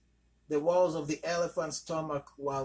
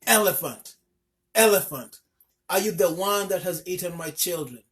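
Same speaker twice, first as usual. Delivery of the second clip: loud, higher furious shouting; angry shout; 4 semitones higher, 10 dB louder than usual. A narrator's reading. Mother shouting angrily at the elephant who ate her children. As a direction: confront him at full voice. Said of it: "she shouted angrily".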